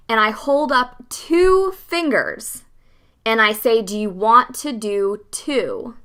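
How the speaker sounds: slow, spelling it out clearly; slow and deliberate. Shown as a demonstration. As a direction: make every word unmistakable, slowly. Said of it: "Like, I held up two fingers".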